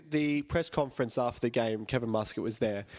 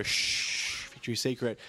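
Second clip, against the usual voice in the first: hushed whisper; slower than usual. Retold or imitated. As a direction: shush them, then breathe the title. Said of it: "Nadia would go".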